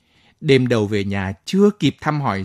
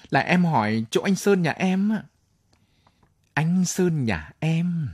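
chirpy voice; 4 semitones higher than usual. Acted. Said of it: "Cái giọng tí từng của vợ Sơn".

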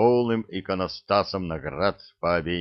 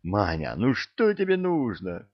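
exclaiming general. Acted. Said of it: "Генерал-лейтенант воскликнул".

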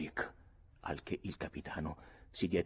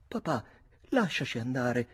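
higher-pitched daughter's protest; exclaimed plea; 5 semitones higher than usual. A narrator's reading. Nora protests to her father to let the women leave, exclaimed plea. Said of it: "che esclamava".

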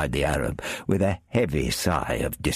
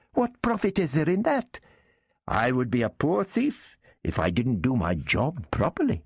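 much higher, wheedling Arab character; Arab thief voice; 8 semitones higher than usual. Acted. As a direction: lift the voice high for the sly Arab.

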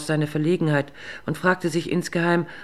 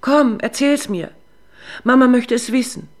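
coaxing mother; 8 semitones higher, 9 dB louder than usual. Acted. Drunk mother coaxing her little son to tell. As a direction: coax it out of him sweetly.

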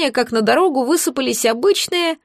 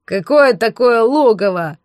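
slow, louder snorting bandit; scornful snort; 3 dB louder than usual. A narrator's reading. Bandit scoffs at Alice's talk of a lair, slow. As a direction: snort the question with disdain. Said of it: "фыркнул разбойник".

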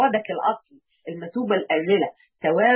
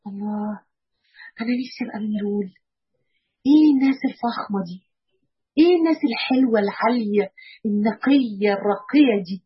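delighted longing. Pretend. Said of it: "هتحسي إن أنت فرحتي كده وقلتي".

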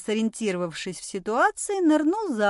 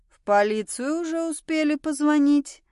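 higher-pitched snide question; sarcastic; 6 semitones higher, 4 dB louder than usual. A narrator's reading. Policeman answering the woman's jibe, sarcastic. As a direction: needle them with mock inquiry. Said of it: "съязвил в ответ полицейский".

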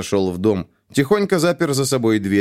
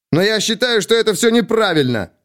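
sudden shout; 11 semitones higher than usual. A narrator's reading. Captain interrupting himself, shouting at the colonel. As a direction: cry it out, cutting himself off. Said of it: "Внезапно он буквально закричал".

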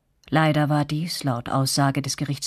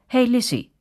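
a mock call from the crowd, pitched higher; 9 semitones higher, 3 dB louder than usual. A narrator's reading. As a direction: narrator lightly voices a heckler. Someone in crowd calls out.

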